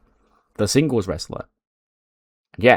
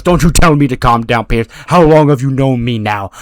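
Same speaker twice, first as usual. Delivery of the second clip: angry retort; 2 semitones higher, 6 dB louder than usual. Retold or imitated. Enraged wrestler snaps back at official.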